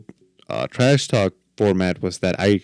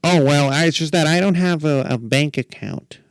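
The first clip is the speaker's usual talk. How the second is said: higher, sheepish excuse voice; Ryan voice; 7 semitones higher than usual. Retold or imitated. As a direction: mumble the excuse like a bashful friend. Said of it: "this is my Ryan voice".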